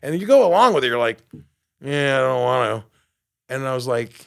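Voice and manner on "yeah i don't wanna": lightly mocked reluctant kid; a hint of childish refusal; whiny child brain. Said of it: "that child voice in your head".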